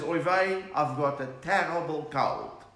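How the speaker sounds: put-on light Yiddish-accented kvetch; a touch of Yiddish accent. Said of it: "Two Jewish jokes talking".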